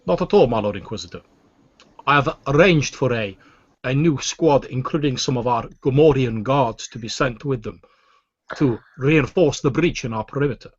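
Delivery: Weequay alien voice. Acted. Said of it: "the Weequay's voice says".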